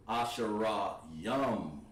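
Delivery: slow demo. Shown as a demonstration. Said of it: "You always put that Yum on the end".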